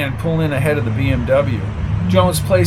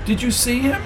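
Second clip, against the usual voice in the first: squeaky voice; 9 semitones higher than usual. A narrator's reading. Flo's squeaky question.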